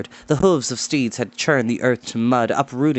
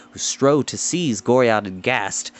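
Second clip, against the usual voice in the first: plain reading voice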